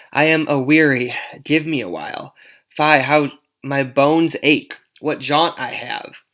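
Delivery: put-on loud complaining old nurse; weary nurse. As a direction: groan about tired old bones. Nurse complains of aching bones.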